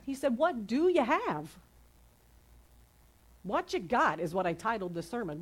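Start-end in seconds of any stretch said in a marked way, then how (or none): 0.4-1.6 "do" raised high and drawn out; slow question leaning hard on "do"; stress on DO. Shown as a demonstration. Preacher corrects to what Jesus said, stress on "do". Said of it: "My emphasis is on do".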